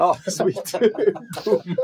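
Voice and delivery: laughing, high and loud celebration; laughing cheer. Real, not acted. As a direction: whoop it out through laughter. (skrattande jubel)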